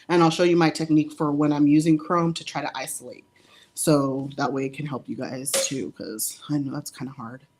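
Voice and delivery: breathless, talking between breaths; winded from being pregnant. Real, not acted. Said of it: "Sorry, I'm out of breath".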